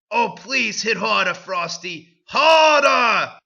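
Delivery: rising to a high, loud mock demand; hammed-up begging. Heroine begs Frosty.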